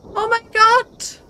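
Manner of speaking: slow, drawn-out, loud and high; shocked exclamation. Real, not acted. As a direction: stretch out the shock. Reacting to a scare in the game. (langgezogener, erschrockener Ausruf)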